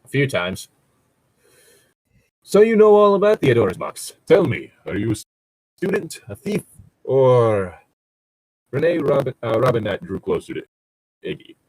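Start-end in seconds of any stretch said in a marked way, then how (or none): 2.4-7.8 put-on suspicious old man. Rene questions the stranger.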